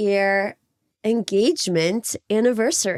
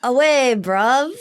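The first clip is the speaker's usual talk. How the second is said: imitating South African slang; slower than usual. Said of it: "try an easier one".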